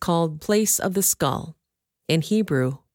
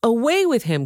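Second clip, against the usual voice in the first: higher and louder, Away hit hard; louder yell; 6 semitones higher than usual. Acted. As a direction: push the repeated cry harder than the first. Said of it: "they yelled".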